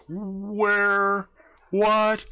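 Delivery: high, startled where and what; high startled double take; stunned. Retold or imitated. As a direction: blurt it in shock. Guys stunned.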